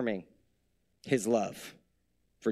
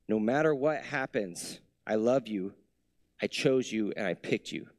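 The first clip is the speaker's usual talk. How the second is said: low, gentle voice of God reassuring his son; tender reassurance; 4 semitones lower than usual. Acted. God assuring Jesus he is loved, lower and tender.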